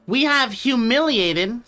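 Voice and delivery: slow, stately announcement of triumph; grand proclamation. Pretend. Streamer restarting the victory proclamation for chat. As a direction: proclaim it like a conquering emperor. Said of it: "sorry, let me just show".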